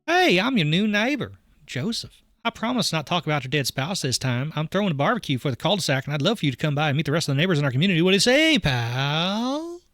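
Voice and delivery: high, chirpy salesman-like patter; overly cheery neighbor. Acted. Neighbor starting over with a barbecue invite, relentlessly cheery.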